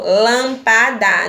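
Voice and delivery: "lâmpada" said slowly with weight on "lâm"; slow down and hit the "lâm" of "lâmpada"; stressed syllable demo. Shown as a demonstration. Teacher showing pupils the stress in "lâmpada", slow and leaning on "lâm". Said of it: "então é proparoxítona".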